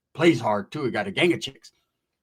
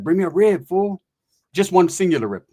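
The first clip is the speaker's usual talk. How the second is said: mock demanding friend; 2 semitones higher, 5 dB louder than usual. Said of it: "Who says that?".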